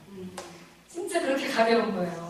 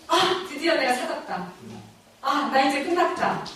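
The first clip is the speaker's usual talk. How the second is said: relieved joy; 4 semitones higher than usual. Retold or imitated. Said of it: "이런 느낌".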